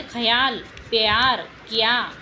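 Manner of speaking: teacher models the य glide; य glide demo. Shown as a demonstration. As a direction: bring out the य in each word. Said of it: "य की आवाज़ आ रही है".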